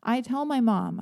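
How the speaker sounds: normal talking voice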